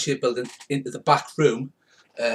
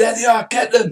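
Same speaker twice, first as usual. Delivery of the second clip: high, loud, rallying yell; 9 semitones higher, 7 dB louder than usual. Voicing a character who orders the others to catch the fleeing mouse: shouting. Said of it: "Karina shouts".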